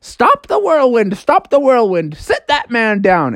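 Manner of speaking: high, urgent commands; alarmed talking house. Acted. House orders the whirlwind to stop, high and urgent. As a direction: call a halt urgently, starting high. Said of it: "the house was like".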